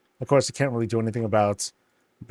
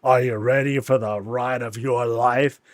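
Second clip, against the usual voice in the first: louder sinister ride announcer; creepy gnome host; 4 dB louder than usual. Pretend. Gnome greeting riders, louder and ominous. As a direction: welcome riders to their doom. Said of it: "the gnome is like".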